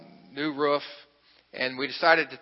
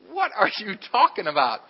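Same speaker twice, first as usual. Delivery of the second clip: incredulous reply; 5 semitones higher than usual. Retold or imitated. Driver's baffled reply.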